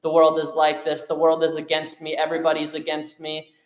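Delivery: lightly acted whiny complainer; mock complaining. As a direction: imitate someone grumbling that everything's unfair. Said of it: "just sits around and complains and moans and being like".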